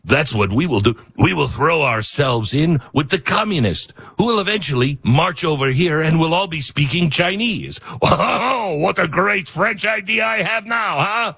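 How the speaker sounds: lightly voiced smug politician, slightly off from his own voice; a mild caricature of a self-satisfied leader; mock Carney voice. Mocking the prime minister's China pivot in a mild put-on voice. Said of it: "I shouldn't use a Trump voice 'cause it was much more like".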